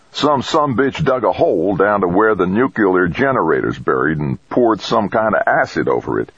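folksy, incredulous character voice; bleak crewman Craig. Acted. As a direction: report it as if scarcely believing it. Voices Craig reporting the sabotage.

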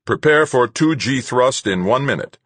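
loud, high flat ship computer. A narrator's reading. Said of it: "the computer's flat voice boomed through the ship".

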